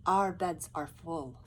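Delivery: slow, firm refusal; Louise refusing. Acted. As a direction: shut them out slowly.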